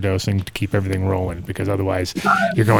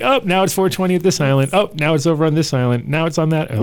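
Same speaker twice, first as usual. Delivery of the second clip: excited; 5 semitones higher than usual. Retold or imitated. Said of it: "You're like".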